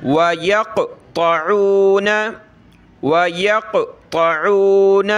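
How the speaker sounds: वयक़्तऊन with a thick, heavy त. Shown as a demonstration. Teacher showing students a heavy ta. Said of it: "तौ को मोटा करें".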